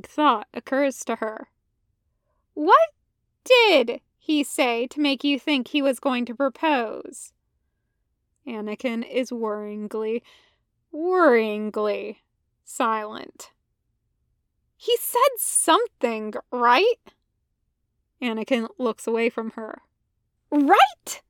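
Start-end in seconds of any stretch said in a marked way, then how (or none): 2.5-7.3 alarmed Ahsoka. Acted. 14.8-17.0 higher probing question; pressing Ahsoka. Acted. Ahsoka to Anakin, higher pushing question. 20.5-21.2 higher, louder repeated "Right?"; insistent Ahsoka. Acted. Ahsoka to Anakin, louder higher insistence.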